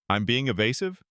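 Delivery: rising, disbelieving throw-back of being; mild mock astonishment; incredulous echo. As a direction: repeat the charge back in disbelief. The speaker throws accusation back.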